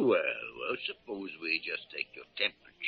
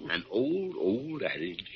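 chuckling through the words; laughing. Acted. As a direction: laugh as you say it.

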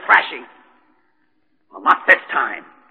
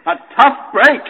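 bitter mocking echo; 4 semitones higher, 4 dB louder, slower than usual. Bitter echo of friend's words.

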